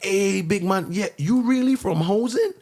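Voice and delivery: put-on a kid's question pitched high; excited kid. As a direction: ask it like an awed schoolkid. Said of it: "and like".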